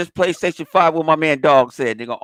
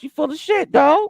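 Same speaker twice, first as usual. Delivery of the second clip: higher pitched blunt call-out; 10 semitones higher, slower than usual. Retold or imitated. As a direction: say it straight to his face. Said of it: "I straight up tell them in their motherfucking face".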